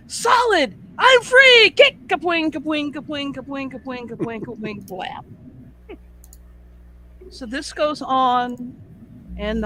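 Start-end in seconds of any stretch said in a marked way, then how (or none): 0.1-5.2 a frog hitting the wall and cheering its escape; triumphant cartoon frog. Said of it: "And he says".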